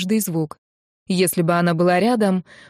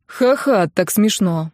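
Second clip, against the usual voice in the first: gloomy sarcasm; slower than usual. Acted. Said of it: "мрачно отвечал им Фил".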